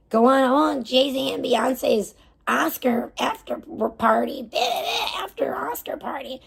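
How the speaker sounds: slow put-on voice fading to a whisper; mock party voice. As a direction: parody them breezily. Mocking celebrity party talk.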